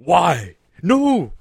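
high, loud mock outburst; exaggerated shouted protests, each its own burst; yelling. Panelist imitates the always-yelling first officer, mock shouting. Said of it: "he's always yelling just like Worf".

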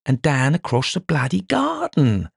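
excited blustering. Acted. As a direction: hammer home the obvious theory. Dover excitedly lays out theory.

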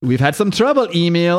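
mock German villain asking about the wounded father; German accent. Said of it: "They're now Germans from now on".

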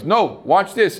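a man dying to show off his stain powder; pushy carpet cleaner demanding attention, high and loud; eager salesman voice. Retold or imitated.

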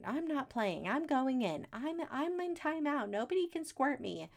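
mock kid protest. Kids quitting the squirt-gun game, mock protest. Kids' argument acted out, refusing to play.

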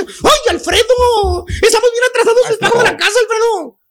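mock angry wife nagging the husband about the overdue house payment. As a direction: scold him straight out. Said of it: "le dice enojada".

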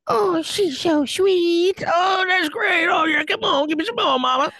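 high, slow, drawn-out mock catcall; hammed-up hollering at the stage; mock catcalling fan. Slow, high catcalling heckler egging on a stand-up comic. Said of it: "I'll be like".

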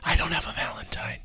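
mock-forlorn whisper. Host whispering he has no Valentine. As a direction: sigh it out hushed and sorry for yourself.

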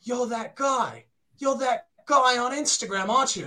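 recognise someone with mounting amazement; imitating an amazed musician; wide-eyed recognition. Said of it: "his eyes get, like, the size of the moon".

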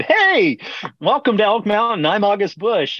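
a hint of a jovial big boss; imitating the boss. Boss greeting the brewers.

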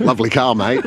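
light Australian cop voice; Australian accent. Retold or imitated. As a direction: say it like an Aussie cop. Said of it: "I'm about to do an Australian accent".

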